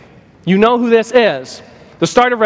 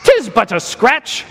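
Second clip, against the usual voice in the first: mock Black Knight; 3 semitones higher than usual. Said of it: "Black Knight says".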